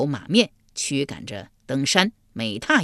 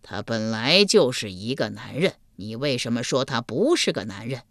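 curious King Yama; 4 semitones lower than usual. Acted. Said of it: "阎罗天子来了兴趣".

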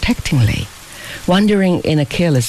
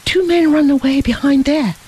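raised, higher alarmed cry; cried out; 10 semitones higher than usual. A narrator's reading. Tieko crying out a warning to Fabian in alarm. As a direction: call out the danger sharply. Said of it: "cried he".

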